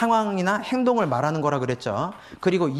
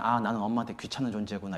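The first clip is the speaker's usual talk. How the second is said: put-on hurt child; 6 semitones lower, 7 dB quieter, faster than usual. Shown as a demonstration. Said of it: "아이는 어떻게 생각하냐면요".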